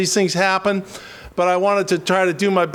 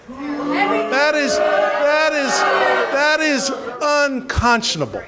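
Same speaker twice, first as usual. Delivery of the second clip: rising outraged shout; 7 semitones higher, slower than usual. Real, not acted. Speaker to the crowd, a high indignant shout. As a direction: hammer it home, that is unconscionable. Outraged appeal about veterans' votes.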